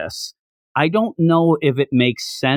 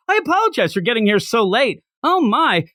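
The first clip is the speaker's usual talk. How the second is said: lightly voiced cheery apology, pitched up; mock-polite greeting, higher voice; all smiles; 5 semitones higher than usual. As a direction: play a character who is all smiles. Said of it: "like, all smiles".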